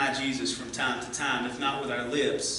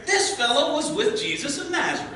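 much higher voice calling him out to the crowd; accusing servant girl; 13 semitones higher, 4 dB louder than usual. A narrator's reading. Second servant girl telling the people about Peter, high and loud. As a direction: point him out to everyone, high-pitched. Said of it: "said to the people there".

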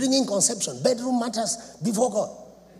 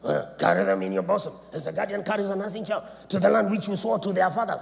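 quick sarcastic Moses quote, rattled off fast; with an attitude; faster than usual. Acted. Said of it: "with an attitude".

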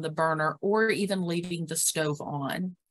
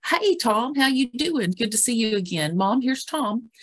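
bright, higher greeting that moves on easily; cheerful greeting; 5 semitones higher than usual. Shown as a demonstration. Caregiver introducing Tom to mom, cheerful and higher. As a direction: greet Tom warmly and introduce him in passing. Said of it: "what I might say is".

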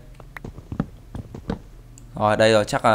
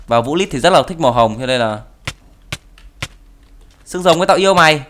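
normal talking voice

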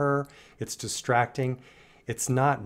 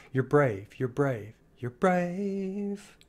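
tender self-talk; 4 semitones higher, much slower than usual. Retold or imitated. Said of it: "talk to ourselves that way".

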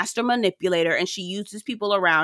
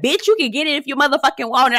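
flipped the switch; 5 semitones higher, faster than usual. Retold or imitated. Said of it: "flipped that switch and was like".

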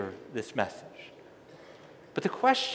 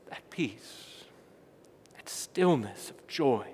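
whispered; 5 semitones lower than usual. Acted. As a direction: drop to a breathy hush on "that peace". Hushed word in a sermon.

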